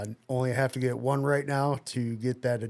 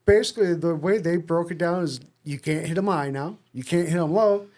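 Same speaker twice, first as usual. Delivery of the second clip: building exasperation; 5 semitones higher, 6 dB louder than usual. Real, not acted. Building exasperation over tackle rule.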